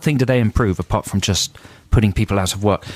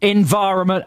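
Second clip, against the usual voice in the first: flat, stilted words for a machine; robot voice; 6 semitones higher than usual. Retold or imitated. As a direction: speak like you're talking to a robot. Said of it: "reply in a sort of robot voice".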